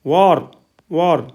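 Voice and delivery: "वॉर" with a long open vowel, like "vaar"; teacher showing the vowel in "वॉर"; open back vowel. Shown as a demonstration. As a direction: model "वॉर" as one drawn-out falling word. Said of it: "औ की ध्वनि उच्चारण है".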